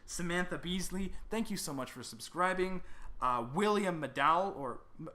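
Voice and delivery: normal talking voice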